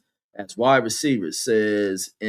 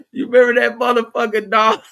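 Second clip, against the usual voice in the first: excited; 8 semitones higher, 6 dB louder than usual. Real, not acted. Excited recalling Don Imus.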